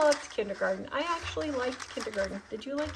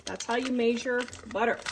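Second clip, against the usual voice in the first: hillbilly Kansas accent. Shown as a demonstration. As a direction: measure said as MAY-zhur, Kansas twang. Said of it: "My hillbilly accent from Kansas".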